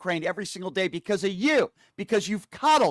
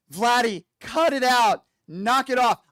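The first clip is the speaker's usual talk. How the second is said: loud, high mock scolding of Vladdy; mock Trump scolding; 6 semitones higher, 5 dB louder, slower than usual. Host mocking Trump scolding Putin, loud and high.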